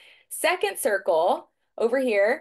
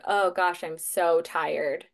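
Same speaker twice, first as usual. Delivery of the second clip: weary inner voice; 3 semitones lower, slower than usual. Retold or imitated. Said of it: "I had this little voice that was like".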